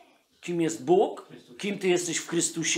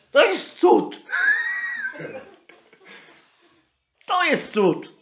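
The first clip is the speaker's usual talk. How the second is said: emphatic exclaim; 12 semitones higher, slower than usual. Real, not acted. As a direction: proclaim it as a miracle. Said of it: "emphatic claim".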